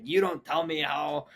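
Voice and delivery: slow, emphatic retold scolding; yelling dad. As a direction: imitate an angry father laying down the law. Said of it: "starts, like, yelling at her".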